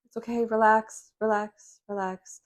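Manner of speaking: whispered, hushing relax; mock soothing whisper. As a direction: hush them like a worried loved one. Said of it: "the people around you ... are going".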